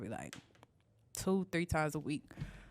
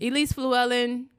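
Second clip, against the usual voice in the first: formal full name; 6 semitones higher, 9 dB louder, slower than usual. Shown as a demonstration. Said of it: "you have to say the whole thing".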